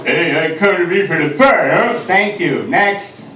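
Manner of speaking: mock actor's audition as a cabbie. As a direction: cabbie voice for the casting room. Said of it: "walked into an audition".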